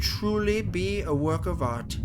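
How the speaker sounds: put-on creepy, accented villain purring at the victim; sadistic captor, admiring. Captor turning victim into art, creepy admiration. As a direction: admire your victim, then lilt into the chopping.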